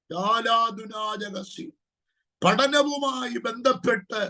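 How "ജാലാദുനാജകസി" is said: slow, drawn-out tongues syllables; speaking in tongues. Real, not acted. Prophet breaking into tongues mid-prophecy, slow and drawn out.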